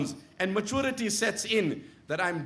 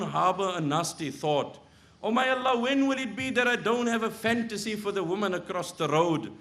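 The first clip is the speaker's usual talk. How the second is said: earnest prayer. Retold or imitated. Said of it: "I talk to Allah".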